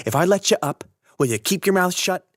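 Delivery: loud high demand, sharp and impatient; angry demand. A narrator's reading. Stradlater demanding silence from Holden, angry yell. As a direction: yell the condition down at him.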